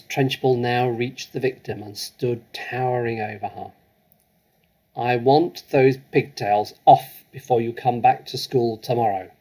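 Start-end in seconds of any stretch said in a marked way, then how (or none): 4.9-9.3 louder, harsh commanding bark; barked order. Acted. Headmistress ordering a girl to cut her pigtails, barking. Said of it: "she barked".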